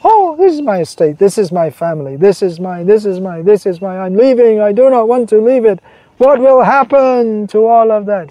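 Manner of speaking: mock crying lament. Preacher acting a worldly man crying at death, mock wail. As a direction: wail over losing your estate. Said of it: "others there crying".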